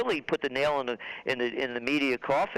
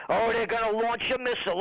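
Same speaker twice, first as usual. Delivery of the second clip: mock alarm; 5 semitones higher, faster than usual. Repeated mock hype.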